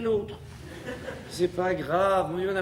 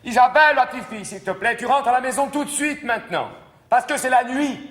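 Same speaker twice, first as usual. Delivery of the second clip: higher, louder calling; calling out to daughter; 6 semitones higher, 5 dB louder than usual. Acted. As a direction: call her home across the snow. Mère rappelle sa fille. (mère qui appelle sa fille, plus fort)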